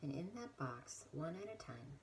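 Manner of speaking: softly walk them through it, leaving space; guided prayer. Real, not acted. Now leading the guided imagery.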